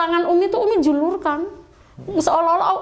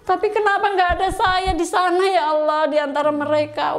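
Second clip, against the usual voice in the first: mildly imitated crying plea; retold tearful lament; 5 semitones higher than usual. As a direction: lament to God, tears only suggested. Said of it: "Umi nangis di atas". (ratapan memelas, menirukan tangis secara ringan)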